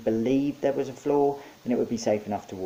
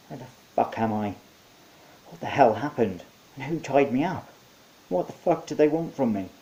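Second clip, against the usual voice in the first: rising alarmed voice; frantic and confused, getting louder; waking up tied and scared; panicked questions; 4 semitones higher, 4 dB louder than usual. A narrator's reading.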